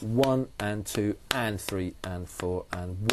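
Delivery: slow counting. Shown as a demonstration. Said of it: "So yes, it's one and two and".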